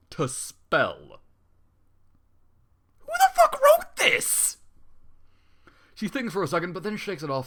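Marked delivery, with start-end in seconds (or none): 0.1-1.2 dead-pan echo of the odd word; flat, baffled repeat. Real, not acted. Reader rereading a typo, baffled deadpan. 3.0-4.6 much higher and louder, slow disbelief; exasperated yell. Real, not acted. Reader yelling at the author, exasperated outrage.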